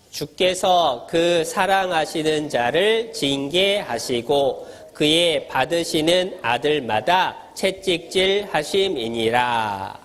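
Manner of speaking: slow, measured group-reading cadence; scripture recitation. Real, not acted. Pastor leading children reading Hebrews aloud, slow recitation. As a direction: read it out slowly, phrase by phrase.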